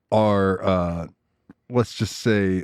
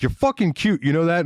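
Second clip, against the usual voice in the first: raised-pitch mock tough come-on; aggressive flirting; 4 semitones higher than usual. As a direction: flirt as if picking a fight. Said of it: "and be like".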